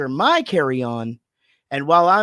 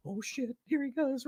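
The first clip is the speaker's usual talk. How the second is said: muttered aside; 6 semitones higher, 11 dB quieter than usual. Retold or imitated. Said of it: "And everybody just goes".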